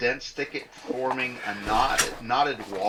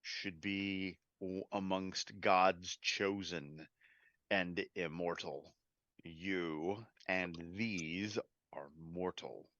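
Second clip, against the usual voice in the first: softer, slow, grave pronouncement; solemn angel guardian; 4 semitones lower, 8 dB quieter, slower than usual. Acted. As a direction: judge them calmly from above.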